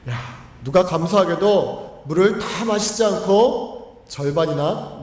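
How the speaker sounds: slow, pleased wonder; slow gentle thankful wonder at the water left; grateful delight. Acted. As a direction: savour the surprise, slowly. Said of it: "바로 긍정적인 반응입니다".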